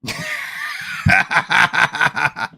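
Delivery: high wheeze into pulsing laughter; big laugh. Real, not acted. Cracking up before replying to Josh, big high laugh.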